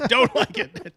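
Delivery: mock disapproval while laughing; laughing mock echo. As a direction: laugh out the dismissal. Echoing cohost mock.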